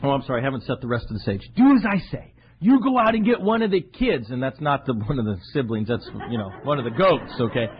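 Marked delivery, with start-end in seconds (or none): 1.5-4.3 firm, louder command; a mother pushing her son; insistent mother. Retold or imitated. Rebecca orders Jacob to fetch a goat, firmly louder. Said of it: "she comes to the son".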